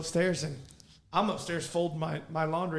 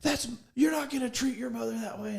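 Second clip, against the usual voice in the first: a hint of a stern father, pitched higher; stern dad lecture; 7 semitones higher than usual. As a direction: retell the scolding with mock sternness. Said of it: "fire, brimstone, and hell speech".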